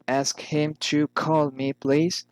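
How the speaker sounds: "please" rising at the end; rising intonation. Shown as a demonstration. Teacher models a request, rising intonation on "please". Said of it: "rising intonation".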